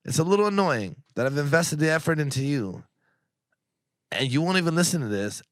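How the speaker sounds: blunt, mildly exasperated reproach; a little annoyed. Real, not acted. Friend venting about effort wasted on friends, a little annoyed. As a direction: lay it out with real irritation. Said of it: "You can tell I'm a little annoyed".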